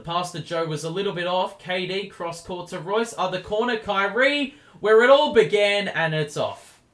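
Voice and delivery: rising to a big shout as the shot goes up; excited commentary. Real, not acted. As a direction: build the call up to the shot. Fast ball movement, big shot.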